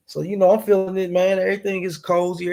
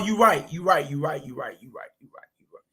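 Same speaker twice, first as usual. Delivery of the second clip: laughing fade. Real, not acted. Laughing concession, fading out.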